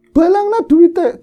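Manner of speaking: grandmother's voice telling her to throw the money; grandmother's guiding voice. Retold or imitated. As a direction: order it like the grandmother's voice. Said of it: "dituntun suara nenek saya".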